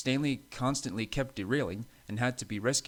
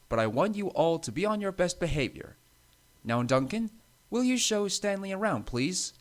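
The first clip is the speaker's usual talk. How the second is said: instructing boss; 7 semitones higher than usual. A narrator's reading. Controller instructs the engines.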